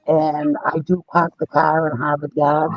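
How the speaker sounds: Boston accent, the R dropped in park, car and yard; a light Boston demo. Shown as a demonstration.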